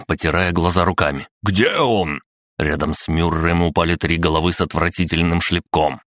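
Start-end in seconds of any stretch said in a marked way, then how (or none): 1.4-2.2 higher-pitched shouted question; urgent cry. Acted. Blinded captain demanding where the robot is, crying out. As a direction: call out, searching for the enemy. Blinded man calls out in fight.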